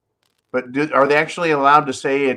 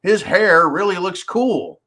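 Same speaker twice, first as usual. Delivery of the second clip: a breezy, doting judge waving the case away; sarcastic judge impression; mock judge; 6 semitones higher than usual. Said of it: "throw it out and go".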